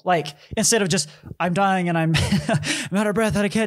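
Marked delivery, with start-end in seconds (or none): 1.4-3.7 higher, fast, breathless mock moan with a laugh; mock exhausted complaint. Host imitating himself dying after a hard set, mock exhausted. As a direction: ham up being wiped out mid-workout. Acted quote of exhausted self.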